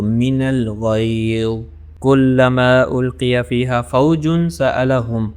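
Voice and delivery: slow, measured Quranic recitation. Shown as a demonstration. Teacher recites the verse for students, slow and measured. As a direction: recite it slowly and evenly, holding the sounds.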